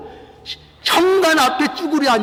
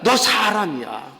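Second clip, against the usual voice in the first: low, slow, sober rebuke; understated, drawn-out reproof; friend's reproof; 5 semitones lower, slower than usual. Acted. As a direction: remind a friend gravely, unhurried. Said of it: "책망을 좀 해야 되겠죠?".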